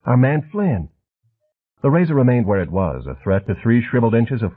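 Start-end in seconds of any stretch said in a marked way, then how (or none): 0.1-0.9 lightly higher, soft, a touch quick and wired; soft jabbering hustler. A narrator's reading. Harvard man threatening Flint at the urinal, soft and wired. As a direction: menace wrapped in a soft, chatty voice. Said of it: "soft, almost feminine voice".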